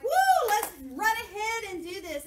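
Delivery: loud, high eager cheer; mock overzealous believer; overeager whoop. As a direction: rush ahead excitedly. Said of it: "we're like".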